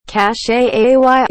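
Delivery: CASH said as "cash-ay", then spelled out; mock French pronunciation. Correcting people who add French endings, exaggerated mispronunciation. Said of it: "is definitely not correct".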